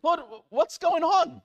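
high, slow, laughing wail to the Lord; a hammed-up cry of why me; laughing mock despair. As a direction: overplay the frustration through a laugh. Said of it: "laughs Like".

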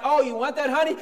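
hammed-up doting husband; mock sweet husband. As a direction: tease the pushover husband.

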